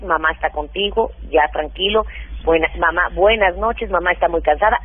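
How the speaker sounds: lightly acted mum saying goodnight; soothing mother. Mother soothing crying baby at bedtime.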